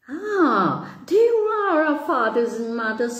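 high, eager little bird; tiny sparrow voice. Acted. Tiny sparrow greets mother.

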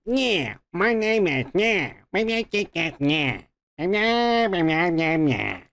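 a light mock of a mumbly, drawn-out yeah voice; Chris Hemsworth's weird voice. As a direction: lazily mimic the actor's odd character drawl. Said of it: "he does this weird voice where he does like".

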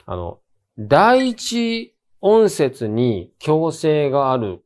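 usual speaking voice

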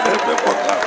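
hushed whisper, under the breath; whispered aside. Retold or imitated. Comedian begging the crowd for claps in a whisper. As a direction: whisper it like a secret prayer. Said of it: "What I dey do, I say".

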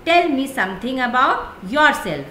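slow, deliberate interviewer question; interviewer asking. Retold or imitated. Teacher acts the interviewer asking a candidate, slowly. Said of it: "अब वो कह रहा है".

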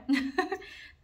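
short, high-pitched laugh; real giggle bubbling up; amused laugh. Real, not acted. Storyteller amused by wife's complaint, laughing.

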